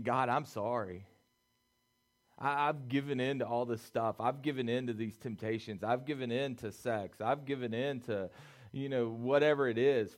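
Samson's prayer of repentance. Retold or imitated. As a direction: plead with God, lightly acted. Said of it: "that was Samson saying".

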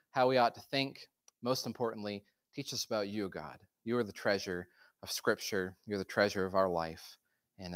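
low, measured congregational prayer; reverent, unhurried address to God. Real, not acted.

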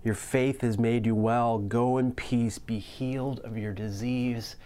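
Jesus gently telling the woman she is healed, tender. Retold or imitated. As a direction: speak as if reassuring a frightened woman. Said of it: "he says to her gently".

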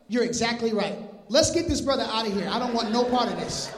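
mock-eager official, rattled and rushing; eager Pilate. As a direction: play Pilate hurrying to wash his hands of it. Pilate voiced wanting out.

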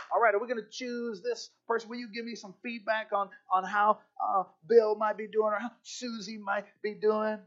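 a hint of a selection panel conferring; committee member. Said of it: "an elite group of people saying".

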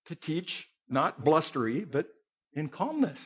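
a calm, steady teacher's read; calm teaching. Shown as a demonstration. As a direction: teach it gently, no bluster. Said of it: "Tamara teaches a lot more calmly".

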